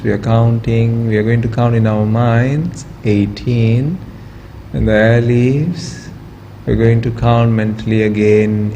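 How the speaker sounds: calm, measured voice leading a meditation, with long pauses; guided relaxation. Real, not acted. Yoga teacher talks students through relaxing the body, calm guided meditation. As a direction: guide them gently into stillness, easing off at phrase ends.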